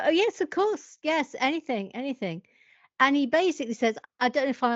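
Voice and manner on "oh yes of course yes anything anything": naive eagerness. Retold or imitated.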